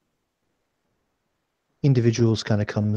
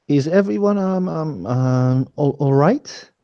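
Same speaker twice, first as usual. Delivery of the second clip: put-on African accent; 3 semitones higher, slower than usual. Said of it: "Has this, like, weird African accent and maybe not practiced".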